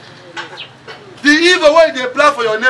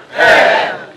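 crowd shout; 4 dB louder than usual. Real, not acted. Congregation shouts hell.

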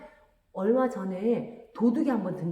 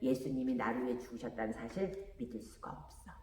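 속으로 하는 생각; 9 semitones lower, 10 dB quieter than usual. A narrator's reading. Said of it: "썬더는 이렇게 생각했어요".

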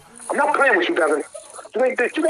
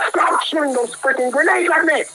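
real exasperated complaint, raised voice; annoyed gamer outburst; frustrated outburst; 3 semitones higher than usual. Real, not acted. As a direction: yell in irritation at your game opponent.

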